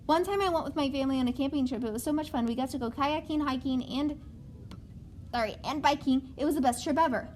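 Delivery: rushed read, no breaths between sentences; reading without pausing for breath. Shown as a demonstration. Teacher shows students a run-on, reading breathless. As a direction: push through like a run-on with no breath. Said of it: "So you're gonna hear me breathe".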